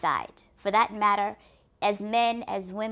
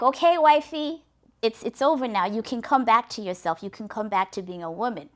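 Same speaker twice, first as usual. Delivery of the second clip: pleading husband; 2 semitones higher, 6 dB louder than usual. Acted. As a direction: call up to her, coaxing her back. Husband pleading with beast wife.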